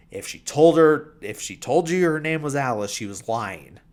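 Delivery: a mock aggressive snap that cools off by the end. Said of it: "like, real aggressive".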